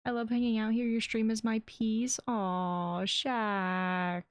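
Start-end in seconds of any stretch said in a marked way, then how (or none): 2.3-4.2 touched aw. Real, not acted. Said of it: "how hard I'm trying not to cry".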